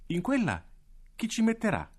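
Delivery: voce infantile molto più acuta; bambina curiosa. Acted. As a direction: una bimba che chiede incuriosita. Claudia chiede al direttore. (Claudia chiede al direttore, voce da bambina)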